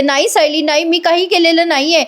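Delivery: imitated crying. Priya denying everything to Sayali, mock tearful. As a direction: act out a tearful denial, without real sobs. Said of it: "मोठ्या मोठ्याने रडायला लागते".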